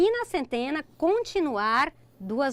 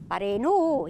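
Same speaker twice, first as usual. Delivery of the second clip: ordinary talk, nothing marked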